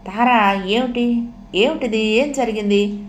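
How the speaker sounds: taken aback, gently questioning; mild startled concern. Acted. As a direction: ask with a touch of alarm. Startled man questions sobbing woman.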